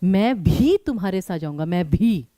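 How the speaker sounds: "भी" pressed hard each time it comes; stress on भी. Shown as a demonstration. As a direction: lean on "भी" with extra force. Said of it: "उसमें भी बलाघात ही होता है". ("भी" पर बलाघात, दबाव देकर)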